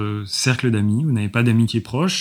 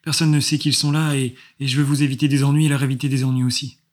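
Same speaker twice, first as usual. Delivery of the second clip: thin little voice; 3 semitones higher than usual. Acted. GM voices Hélène.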